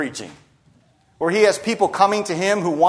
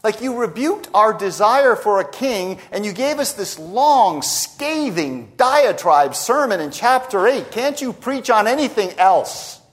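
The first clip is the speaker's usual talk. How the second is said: higher-pitched, mildly hammed-up complaint; exasperated crowd member; 4 semitones higher than usual. Imagined crowd member complains to Samuel about his sermons, mock exasperated. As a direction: protest as a fed-up listener, pitch riding up. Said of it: "You can imagine some in the crowd".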